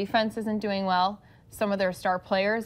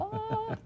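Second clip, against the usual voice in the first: high, soft mock yell; 13 semitones higher, 5 dB quieter than usual. Shown as a demonstration. Host previews her yelling at the game, high and soft mock yell. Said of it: "I'm gonna yell really loud".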